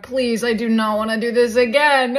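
loud, exasperated begging; desperate plea. Acted. Student dreading another day of quirks, desperate plea. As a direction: plead loudly, fed up.

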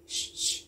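soft shh to quiet the class; shushing. Real, not acted. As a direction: hush them gently. Hushing the children.

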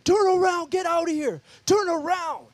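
high, loud, strange demonic shout; loud, high demon voices shouting turn around; demons yelling. Retold or imitated. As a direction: bark it at him like a demon horde. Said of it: "they're like".

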